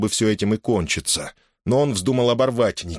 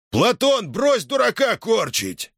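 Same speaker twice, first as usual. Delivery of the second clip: shouting over everyone; 14 semitones higher, slower than usual. A narrator's reading. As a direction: cut through the brawl. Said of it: "перекрывая все голоса, прокричал".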